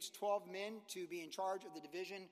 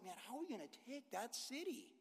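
put-on worried young soldiers; 4 semitones higher, 7 dB quieter than usual. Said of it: "the young guys, like".

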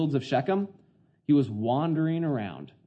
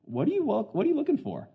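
stranger's voice; 10 semitones higher than usual. Pretend. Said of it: "is like".

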